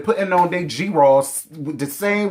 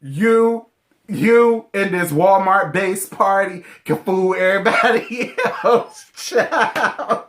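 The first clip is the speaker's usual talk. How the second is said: lightly mocking sassy drawl, laughing through it; hammed-up King Pain with a laugh; imitating King Pain; 3 semitones higher, slower than usual. Vlogger mimicking King Pain's sass, lightly voiced. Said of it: "King Pain said".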